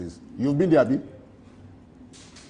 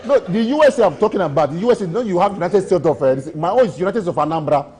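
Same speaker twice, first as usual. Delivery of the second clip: high, loud laughing claim about Anambra; laughing while talking; 5 semitones higher, 6 dB louder than usual. Real, not acted. He laughs while explaining his joking claim of having been to the USA. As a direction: laugh through the punchline.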